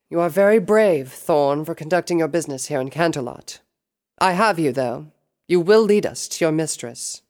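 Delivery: high, loud, imperious princess; regal tone. A narrator's reading. Princess Luna ordering the captured Thorn, regal. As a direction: pronounce it with royal authority. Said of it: "the regal tone made it easy to tell".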